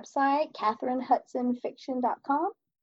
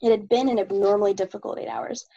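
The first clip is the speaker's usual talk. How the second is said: steady, even novel reading; story narration; 3 semitones lower than usual. Acted. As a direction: read the chapter aloud evenly. Reads chapter of own novel.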